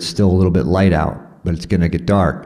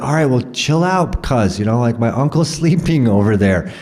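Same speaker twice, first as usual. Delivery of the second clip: calming local; 6 semitones higher than usual. Retold or imitated. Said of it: "And they're like".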